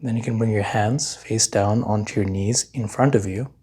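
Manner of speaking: unhurried meditation guide, long pauses between phrases; guided meditation. Real, not acted. Meditation teacher leading listeners to notice their hands, calm guiding voice. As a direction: guide them calmly, leaving long silences to feel.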